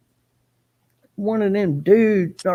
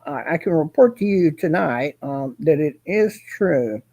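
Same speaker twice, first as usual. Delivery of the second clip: Kenneth as a reporter; 4 semitones lower than usual. Retold or imitated. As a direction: imitate his stiff reporter delivery, slowed down. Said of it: "If he had to be a reporter, he would sound like that".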